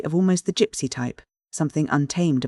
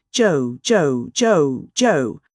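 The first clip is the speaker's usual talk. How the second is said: louder, calling his name kindly to calm him; friendly remonstrating; 4 dB louder, much slower than usual. A narrator's reading. Crisparkle calming the driver, friendly remonstrating call. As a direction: rein him in gently. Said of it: "remonstrating aside in a friendly voice".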